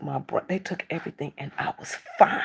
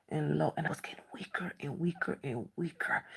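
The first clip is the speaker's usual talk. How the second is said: fading to a faint whisper, voice almost gone; weak whisper; 3 semitones lower, 11 dB quieter than usual. Retold or imitated. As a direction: let the words drain away as strength fails. Fading away, near fainting.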